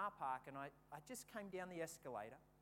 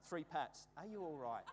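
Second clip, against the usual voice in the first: compassionate; 3 semitones lower than usual. Retold or imitated. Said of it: "I got really compassionate".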